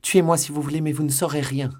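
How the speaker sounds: loud, high, desperate strangled cry; cri étranglé. A narrator's reading. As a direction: cry out in terror, voice choked. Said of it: "criant d'une voix étranglée". (cri de terreur, voix étranglée)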